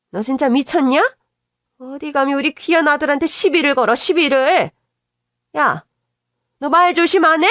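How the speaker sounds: an indignant mother defending her son; scolding mother-in-law. Acted. Mother-in-law scolding daughter-in-law for accusing her son, indignant.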